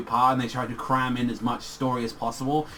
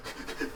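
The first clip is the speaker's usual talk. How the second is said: imitated high-pitched squeal of terror; terrified squeal; 14 dB quieter than usual. Koichi faced with shrimp, mock terrified squeal. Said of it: "has never looked so terrified in his life".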